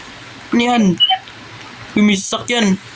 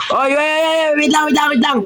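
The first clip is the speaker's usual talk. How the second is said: urgent shout; 7 semitones higher than usual. Real, not acted. Halting teammates before shooting.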